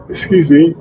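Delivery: words stretched by a yawn. Real, not acted. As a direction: say it mid-yawn. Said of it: "a yawn".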